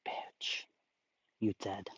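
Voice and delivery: stunned unvoiced whisper; shocked whisper. Real, not acted. Streamer to chat on finding the playlist, shocked whisper. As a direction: gasp it out under your breath. Discovers the sidebar-free playlist.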